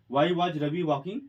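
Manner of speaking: unhurried, each word set down; slow dictation. Shown as a demonstration. Teacher reading the final sentence to the class, slowly. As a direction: read it out for students to copy. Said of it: "English जो वाक्य बनेगा".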